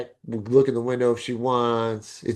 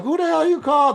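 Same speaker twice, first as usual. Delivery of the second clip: high, loud frustrated cry; retold exasperated yell; 14 semitones higher, 4 dB louder than usual. Narrator fed up with parties in the parking lot, high loud outburst. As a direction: throw up your hands and shout it. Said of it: "and I'd be like".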